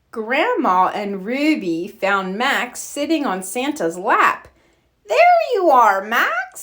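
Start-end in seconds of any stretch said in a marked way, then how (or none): 5.1-6.6 calling out. A narrator's reading. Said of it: "said Grandma".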